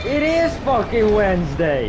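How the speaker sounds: indignant yell. Real, not acted. Friend insisting to the other player, loud. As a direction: shout it like it's obvious. Arguing with friend mid-game.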